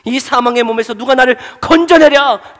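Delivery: mild lament. Acted. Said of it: "절규하는 이 절규".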